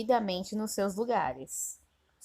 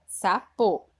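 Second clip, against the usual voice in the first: sapo said firmly with a falling close; teacher revealing the unscrambled word sapo; resolved word; 5 dB louder than usual. Shown as a demonstration. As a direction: announce the answer sapo clearly. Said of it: "coloca o sa, depois o po".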